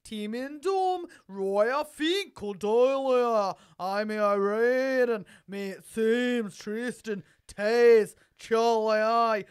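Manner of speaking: a lightly put-on Aussie accent; Australian accent.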